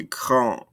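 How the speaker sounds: "grand" with no sound after the vowel; silent ending. Shown as a demonstration. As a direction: stop "grand" on its nasal vowel. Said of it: "I don't hear this E".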